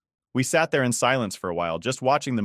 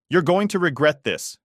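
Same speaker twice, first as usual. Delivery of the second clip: hissed threat; 7 semitones higher, 6 dB louder than usual. A narrator's reading. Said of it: "she hissed".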